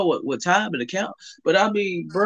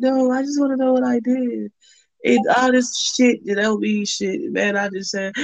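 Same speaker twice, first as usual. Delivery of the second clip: high mimic; 7 semitones higher than usual. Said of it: "She's like".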